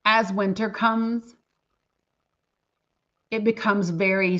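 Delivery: real choked-up pauses, voice dropping away; getting emotional. Real, not acted. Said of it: "I'm about to get emotional".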